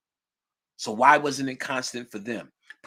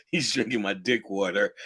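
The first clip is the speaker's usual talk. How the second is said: laughing; 5 semitones lower than usual. Real, not acted. Laughing at own prank idea.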